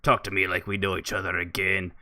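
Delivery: loud snarling insult tirade; gruff angry warrior. Acted. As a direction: bark it like a furious brute. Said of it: "here comes Bargnar".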